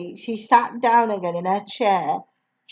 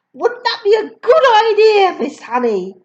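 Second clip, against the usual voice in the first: higher, sneering headmistress question; mock sweet taunt; 9 semitones higher, 4 dB louder than usual. Headmistress taunting Miss Honey, lightly voiced. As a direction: goad the teacher with fake charm. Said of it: "Miss Honey said".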